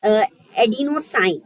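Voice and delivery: adenosine drawn out slowly; teacher modelling the word; slow sounding out. Shown as a demonstration. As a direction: say adenosine slowly for students to copy. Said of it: "तो हम क्या बोलेंगे?".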